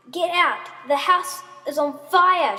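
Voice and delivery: high, urgent shout; screamed warning. A narrator's reading. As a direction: cry fire to clear the house. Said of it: "she screamed, even louder than last time".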